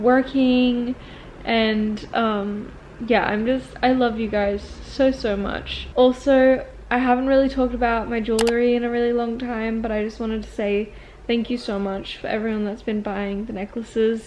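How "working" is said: exaggerated American drawl, strong r in "working". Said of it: "I sounded so American".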